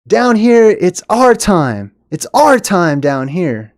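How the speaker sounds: high excited call, then slowing to a hushed drawl; rally the friends down in the well, starting high and eager; quoting Goonies kid. Retold or imitated. Quoting a Goonies kid to friends in the well, eager then slow. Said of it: "he says".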